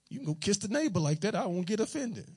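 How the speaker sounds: mock permission. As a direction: pretend you don't mind at all. Mock answer to his wife.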